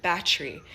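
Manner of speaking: "battery" squeezed into two syllables, "batchry"; Jamaican pronunciation. Shown as a demonstration. Giving an example of a patois word, condensed pronunciation. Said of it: "condense it to battery in".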